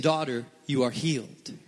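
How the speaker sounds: quiet, gentle hush; soft voice of Jesus. Acted. Pastor voicing Jesus to the woman, softly. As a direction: speak it softly as a blessing.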